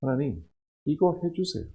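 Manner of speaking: quiet pleading prayer, 이거 falling; soft petition. Retold or imitated. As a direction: murmur 하나님, 이거 해주세요 like a private plea. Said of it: "이렇게 기도하고 있지 않나요?".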